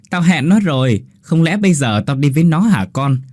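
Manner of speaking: a light mimicry of the mother's wail; mocking the mother. Ghost boy mimics mother for Hiếu, teasing. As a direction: tease by parroting her lament. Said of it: "Đứa bé giả giọng của bà Lan".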